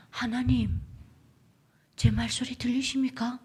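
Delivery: plea to God in Hamgyong accent; Hamgyong-accented prayer, voiced aloud; Hamgyong dialect. Shown as a demonstration. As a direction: pray with a North Korean Hamgyong lilt. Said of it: "함경도 사투리로".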